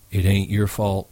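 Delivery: gentle reassurance. Acted. Slim comforting Lenny.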